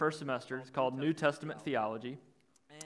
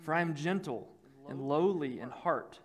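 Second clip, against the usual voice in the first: measured reading with long pauses; scripture reading; 2 semitones lower than usual. Real, not acted. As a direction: read the verse out phrase by phrase. Reads scripture aloud to congregation.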